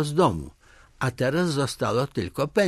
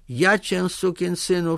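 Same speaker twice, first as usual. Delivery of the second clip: higher, mildly angry outburst; angry threat; 6 semitones higher than usual. Acted. Chief cutting off the village head's excuse, angry threat. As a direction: threaten him with raised pitch, some anger.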